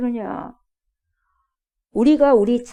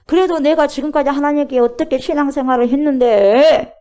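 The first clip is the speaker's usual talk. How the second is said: higher and louder aggrieved cry; indignant protest; 4 semitones higher, 10 dB louder than usual. Acted. A believer protests to God about his faithful life, loudly aggrieved.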